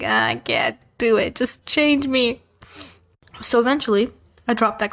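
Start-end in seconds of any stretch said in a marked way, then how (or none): 0.0-2.4 mock despair. Student imagining the math class, slow hammed-up despair. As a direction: drag it out like you've already given up.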